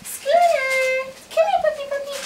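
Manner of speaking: loud high call to a dog. Real, not acted. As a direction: call the puppy over loudly. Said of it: "Keep calling".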